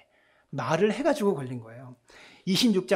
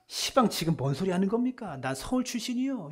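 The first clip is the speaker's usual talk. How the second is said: Jeolla dialect; 3 semitones higher than usual. Retold or imitated. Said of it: "전라도에서 온 범인한테".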